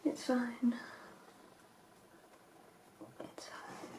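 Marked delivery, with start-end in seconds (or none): 3.2-3.9 very soft, tiny murmur to oneself; barely audible. Real, not acted. Vlogger reassuring herself about cleaning brushes, barely audible. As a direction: let it fade almost to nothing. Repeats it almost inaudibly to herself.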